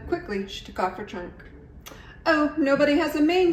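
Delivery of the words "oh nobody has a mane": high, loud surprised realization; surprised cry. A narrator's reading. Iguana seeing everyone's costumes, high surprised cry. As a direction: discover it with a gasp. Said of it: "she cried".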